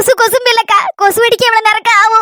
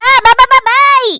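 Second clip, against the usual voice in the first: பா பா called out louder with a rising end; louder babble; 2 semitones higher, 4 dB louder, slower than usual. Acted. Louder babble after crying.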